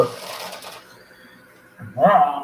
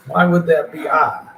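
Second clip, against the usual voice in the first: higher, louder mock-indignant question; upset daughter's objection; 5 semitones higher, 6 dB louder than usual. Parent repeating the daughter's imagined objection, loud mock indignation. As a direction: push it up high and loud. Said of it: "would upset my daughter".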